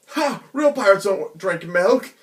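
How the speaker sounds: loud, slow, gloating pirate voice; mocking tease. Shanks teasing young Luffy over the milk, loud and gloating. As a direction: rub it in the kid's face. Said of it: "then he's like".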